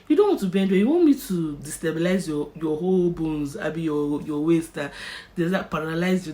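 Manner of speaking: a hint of a stern anaesthetist; stern nurse. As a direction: warn her sharply to bend. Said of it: "That's how she said this".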